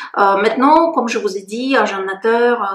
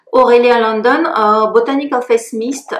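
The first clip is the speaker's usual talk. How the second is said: English accent; 5 dB louder than usual. Real, not acted. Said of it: "Pourquoi je prends l'accent anglais?".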